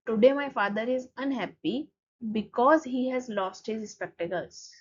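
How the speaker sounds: slow, careful reading of the English line; slow textbook reading. Shown as a demonstration. Teacher reads the book line slowly to students. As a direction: spell it out for the class, word by word.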